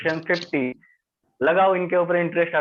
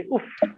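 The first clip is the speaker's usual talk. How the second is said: retold ouch; 3 dB quieter than usual. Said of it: "मुंह से ये आवाज निकली".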